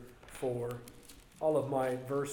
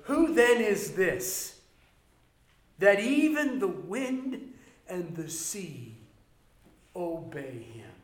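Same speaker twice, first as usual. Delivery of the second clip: preaching climax; 5 semitones higher, 4 dB louder than usual. Real, not acted.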